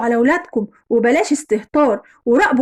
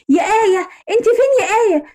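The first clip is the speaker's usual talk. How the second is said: narrated angry yelling; 7 semitones higher than usual. A narrator's reading. Furious husband runs home calling his wife, mildly acted yelling. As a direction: call out angrily for the wife. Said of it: "وقعد يزعق ويقول".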